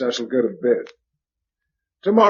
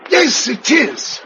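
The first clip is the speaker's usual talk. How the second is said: high and loud, drawn out slowly; overjoyed calling out; 12 semitones higher, 6 dB louder, slower than usual. Acted. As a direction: call her name across the yard, overwhelmed. Reunion, calling her name.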